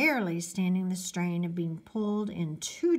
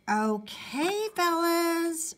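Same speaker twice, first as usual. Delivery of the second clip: higher-pitched mother calling out; called out; 10 semitones higher, 3 dB louder, much slower than usual. Acted. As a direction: call out to the boys as their mother. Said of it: "Missus Monroe called out".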